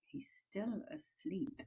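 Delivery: soft breathy whisper. Acted. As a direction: whisper so the giant won't wake. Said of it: "the B F G whispered".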